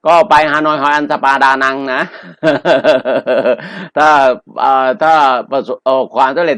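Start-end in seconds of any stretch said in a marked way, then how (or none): 2.1-3.9 long rolling chuckle; sustained, amused chuckling; amused laugh. Real, not acted. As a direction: laugh along at your own joke. Joking send-off to Hanoi lottery.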